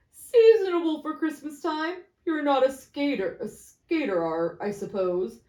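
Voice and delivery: gloating businessman. Acted. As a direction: relish the news. First man.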